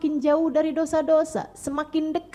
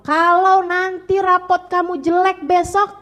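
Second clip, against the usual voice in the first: mock threatening mother; 6 semitones higher, 7 dB louder than usual. Mother threatening child over report.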